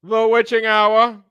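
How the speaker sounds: put-on slow, high, theatrical mid-Atlantic accent; hammed-up old-Hollywood mid-Atlantic accent, drawn out. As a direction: savor each word in a full mid-Atlantic drawl. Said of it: "in my mid-Atlantic American accent".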